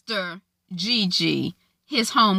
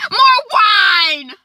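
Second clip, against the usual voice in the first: loud demand; 12 semitones higher, 7 dB louder than usual. Acted. Lady May demanding at dinner.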